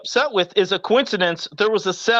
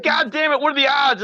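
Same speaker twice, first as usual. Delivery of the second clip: frustrated yell; 5 semitones higher than usual. Retold or imitated. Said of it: "'cause I was like".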